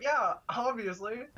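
put-on a nurse stating the obvious, lightly accented; Jamaican accent. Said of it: "thick Jamaican accent".

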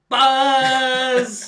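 shrill squeaky buzz cry; high Electabuzz impression. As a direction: yell it way up high like a Pokemon. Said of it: "give me your impression of Electabuzz".

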